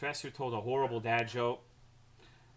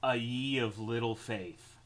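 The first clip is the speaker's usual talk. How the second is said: joke delivery. Shown as a demonstration. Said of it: "run this by you guys as material".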